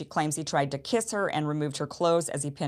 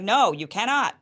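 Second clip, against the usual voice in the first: firm, louder no; retold angry refusal; 4 semitones higher, 5 dB louder than usual. Woman refusing him, mock angry and louder. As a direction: snap back a firm refusal. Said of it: "she was angry about that".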